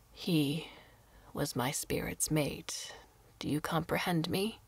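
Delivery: put-on old woman confiding her lost love, softly; lightly voiced grieving old woman. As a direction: let the memory ache quietly.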